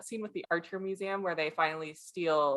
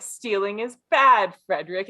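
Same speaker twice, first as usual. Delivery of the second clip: mock lecture; 2 semitones higher, 7 dB louder than usual. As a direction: lecture him like a mock teacher. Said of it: "She's like".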